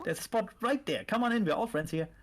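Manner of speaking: lightly voiced cult member, falsely friendly; creepy calm cultist. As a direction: coax them in with creepy calm. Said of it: "That's your cultist F voice?".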